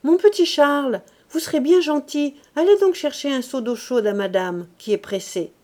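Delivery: calling out loud across the room. A narrator's reading. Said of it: "appela le garçon du lavoir".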